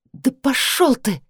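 a touch of gritted fury; said through teeth. A narrator's reading. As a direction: spit it at him slowly. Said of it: "процедила я".

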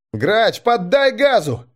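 high, urgent call to the driver. A narrator's reading. Crewman urging the driver to speed up, urgent. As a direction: urge him on, pitched high.

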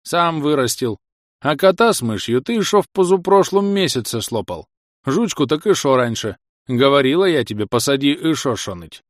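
nagging village granny; scolding old woman. Acted. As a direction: scold him like a cranky old wife. Old wife scolds husband. (ворчливая старуха)

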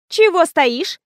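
бесцеремонно. A narrator's reading. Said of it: "бесцеремонно спросила она".

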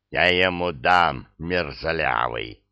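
low, slow rumbling grumble; гудящим басом. Acted. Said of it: "прогудела патронесса". (низко прогудеть)

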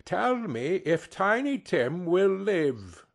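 slow, earnest plea to the spirit; old miser suddenly caring, slow and earnest; earnest question. Acted. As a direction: ask with a new, anxious interest. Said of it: "with an interest he had never felt before".

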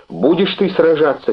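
half-acted pleading shout; mild shout. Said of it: "крикнула она".

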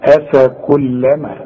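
أفكلما with a thin hamza and kaf, slow; light letters. Shown as a demonstration. Teacher demonstrating light hamza and kaf. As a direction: keep أفكلما light throughout, slowly. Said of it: "شوف الألف ولا الهمزة مرققة".

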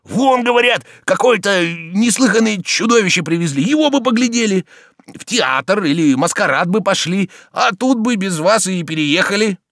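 high, loud eager persuasion; fervent. Acted. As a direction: press the point with zeal. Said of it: "с большим жаром".

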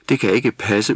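put-on understated tearful young elf. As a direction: protest close to crying. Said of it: "udbrød Jule med gråd i stemmen".

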